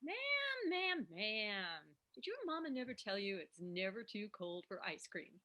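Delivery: sassy Southern waitress. Acted. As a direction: needle her about dessert. Waitress pushy about ice cream.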